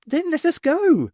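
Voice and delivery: lightly voiced alien. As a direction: state it like a strange being. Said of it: "said Thu".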